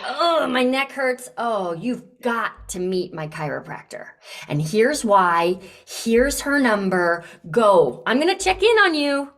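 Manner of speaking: urgent and caring, pressing the friend to go; passionate, insistent. Shown as a demonstration. Coach demonstrating how to recommend something with passion. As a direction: insist warmly, rising on the push to go. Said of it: "when you really care about someone and you're passionate".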